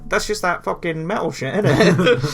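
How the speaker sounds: put-on a northern English accent, half laughing; a mock northern English outsider, dismissive. Mocking outsiders who lump metal together, in a northern English accent.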